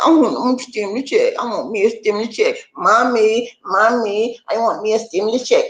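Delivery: lightly voiced whining child, fast; a hint of a toddler calling for mommy; whiny kid. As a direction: beg for it like a spoiled little kid. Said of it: "he's like".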